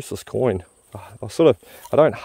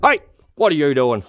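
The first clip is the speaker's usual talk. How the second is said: startling boo; 4 semitones higher than usual. Real, not acted. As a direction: shout to startle him. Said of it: "Did I scare you?".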